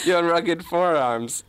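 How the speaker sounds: put-on slow, hammy German-accented admiration; mock-smitten German accent; German detective. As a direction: savour it in a fake German accent. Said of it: "I'll play the German detective".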